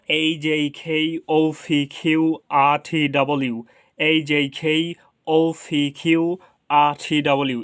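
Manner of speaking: string the letters from এইচ to ডব্লিউ evenly; chant-like run ending in a full ডব্লিউ; pronunciation drill. Shown as a demonstration. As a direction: puff কে, পি, কিউ and টি. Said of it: "এভাবে অন্তত বিশ বার practice করব".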